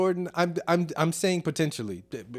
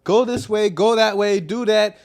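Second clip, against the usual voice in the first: higher, louder barking of battlefield commands; commanding general directing his army; general giving orders; 5 semitones higher, 7 dB louder than usual. Retold or imitated. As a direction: bark orders like a general sending troops. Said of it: "LeBron James is a general".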